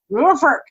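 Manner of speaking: nuforc garbled into NOR-furk; garbled pronunciation. Shown as a demonstration. Co-host fumbling the acronym, nuforc as NOR-furk. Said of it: "I don't know how to say that".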